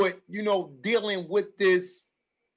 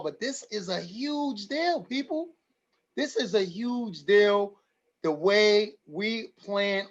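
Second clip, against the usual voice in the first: moved, slow and lifted higher; emotional, slowing down; 3 semitones higher, slower than usual. Real, not acted. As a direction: let the feeling slow each word, pitched up. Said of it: "I'm getting a little emotional here".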